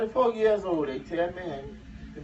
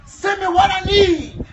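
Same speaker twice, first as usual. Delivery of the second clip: loud, high plea to heaven; belted-out prayer; shouted prayer; 11 semitones higher, 11 dB louder than usual. Retold or imitated. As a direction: call it out high to the Lord. Acting out his loud prayer.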